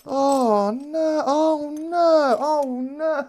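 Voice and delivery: high, choked-up oh no's; overwhelmed, on the edge of crying; near tears. Real, not acted. Viewers' gift box moving the streamer close to tears. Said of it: "You're gonna have me in tears".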